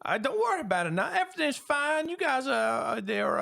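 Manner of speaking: very high, anxious reassuring voice; smooth things over nervously; nervous mayor. Acted. Mayor brushing off Skiff's questions, anxious and high.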